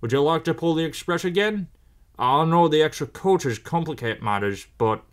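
lightly voiced proud railway boss; mildly pompous, approving boss; Fat Controller figure. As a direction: praise an engine with hearty authority.

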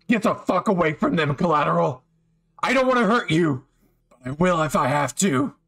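hint of a snarl warning off a villain; guard your friend and mean the threat; protective anger. Bakugo warning the villain off the listener, angry.

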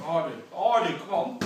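shouted drill commands; loud call. Real, not acted. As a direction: shout it to drive them on. Coach calling out drills.

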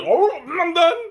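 high, quick give-up quote; mock hasty quit. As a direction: blurt it out like giving up. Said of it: "it's like".

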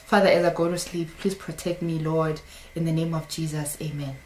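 low, soft murmured prayer; mock bedtime prayer. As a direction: imitate a sleepy routine prayer. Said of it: "You think that's prayer?".

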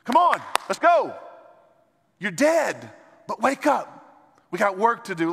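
rousing loud cry to the dead church; urgent wake-up call. Pretend. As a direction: shout like a corner man reviving a knocked-out fighter. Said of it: "Jesus is going".

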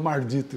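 "mardito" with r in place of l; country-style "mardito", r before the d; rustic pronunciation. Shown as a demonstration. Storyteller owning up to his countrified "mardito". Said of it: "eu falo mardito".

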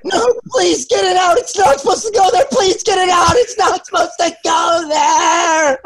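hammed-up terrified begging; mock panicked crying. Retelling a friend's scare in the trees, crying screams. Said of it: "screamed it all the way".

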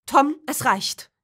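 loud commanding cry; father shouting to silence his son; calling out. Acted. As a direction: stop him with a loud call. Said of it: "rief Christoph nun doch".

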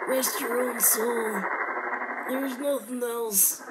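slow, lightly voiced old man; a hint of a frail old man; old man impression. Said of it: "let me do my old man impression".

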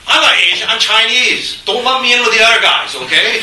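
high, loud mock protest; hammed-up offended insistence; mock indignant. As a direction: bristle as if insulted, half in jest. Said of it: "You've been called an Asian".

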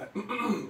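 clears a cookie crumb from throat; quick cough to clear the throat. Real, not acted. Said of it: "choking up here".

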